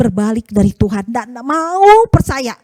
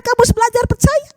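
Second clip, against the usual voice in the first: God speaking; 8 semitones higher than usual. Acted. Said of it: "Tuhan katakan".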